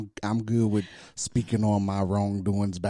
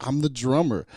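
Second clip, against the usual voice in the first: higher-pitched mock self-defense; retold protest; 4 semitones higher, 4 dB louder than usual. Husband excusing the girls' attention to his partner, mock protest. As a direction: insist on your innocence, pitched up. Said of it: "I was like".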